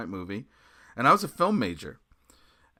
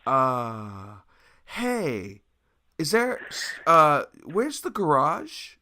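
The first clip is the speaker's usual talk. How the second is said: hesitant, halting polite question; awkward stalling; much slower than usual. Retold or imitated. Guest asks skinhead girl for the garage, awkwardly stalling. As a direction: stall awkwardly, drawing out the words. Awkward exit after spotting Nazi items.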